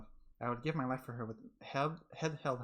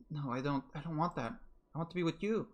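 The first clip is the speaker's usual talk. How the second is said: put-on higher, panicked girl calling through a door; frantic Giselle; 4 semitones higher than usual. Giselle calling to Michelle through the locked door, panicked and higher. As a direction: plead desperately at the locked door.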